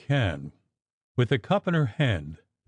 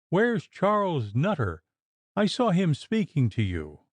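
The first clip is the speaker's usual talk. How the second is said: leering suspicion; 7 semitones higher than usual. Acted. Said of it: "leering all the time over her shoulder".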